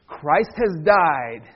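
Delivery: slow, measured liturgical line; liturgical leader. Shown as a demonstration. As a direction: intone it as the service leader. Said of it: "I'm gonna be the leader. I'll say".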